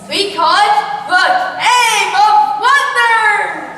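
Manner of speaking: slow, loud, awestruck; excited. Acted. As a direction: proclaim it with wonder. Excited outburst about cave.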